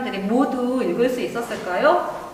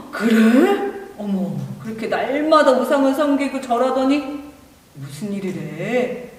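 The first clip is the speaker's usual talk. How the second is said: surprised; 4 dB louder than usual. Acted. Surprised villager reacting.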